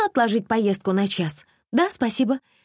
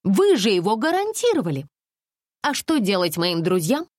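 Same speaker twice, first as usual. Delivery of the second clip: higher, huffy indignant complaints; making a scene; 7 semitones higher than usual. A narrator's reading. Alisa makes a phone scandal with the tour manager, huffy and high. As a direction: threaten like a spoiled customer. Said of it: "Алиса была готова к скандалу".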